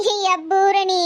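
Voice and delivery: tearful, wailing mother; crying. Acted. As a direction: call out through tears. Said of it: "என்னன்னு அழாம சொல்லுங்கம்மா". (அழுதுகொண்டே)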